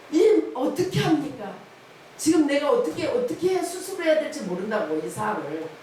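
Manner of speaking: high, loud pleading to God; desperate prayer. Retold or imitated. A wife asks God what to do, pleading loudly.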